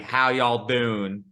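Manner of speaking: put-on slow, thick Southern accent greeting. Host mimics a passing Southern stranger's hello, slow Southern accent.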